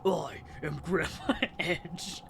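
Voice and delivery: giggling through a mock dramatic line; laughing, can't keep a straight face; breaking character giggling. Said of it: "I can't do it with a straight face".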